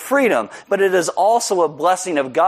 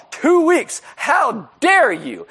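indignant yell; 10 semitones higher, much slower than usual. Retold or imitated. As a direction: yell back in disbelief. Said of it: "So I yell".

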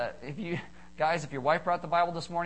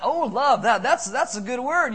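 mock woman swooning; 5 semitones higher, 7 dB louder than usual. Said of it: "Most women like that".

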